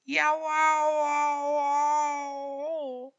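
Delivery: high loud yowls fading; yowl, then let it trail off; cat yowling. A narrator's reading. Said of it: "said the black one".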